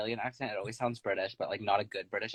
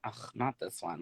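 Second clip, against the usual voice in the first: low, softer groan of dread; retold distaste; 3 semitones lower, 9 dB quieter, slower than usual. Guest seeing her walk into workroom, unimpressed. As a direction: grumble it quietly, as an aside. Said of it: "I was like".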